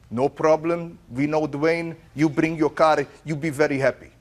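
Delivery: lightly imitated Armenian accent; Armenian mechanic. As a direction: mimic an easygoing Armenian mechanic agreeing. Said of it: "the Armenian auto body repair".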